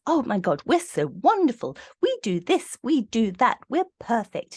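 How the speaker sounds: high-pitched mock gushing; self-congratulating boast. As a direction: gush with showy self-admiration, mockingly. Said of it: "that family institution that goes".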